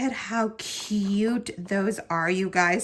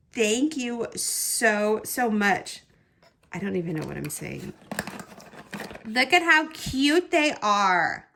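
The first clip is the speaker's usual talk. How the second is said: normal talking voice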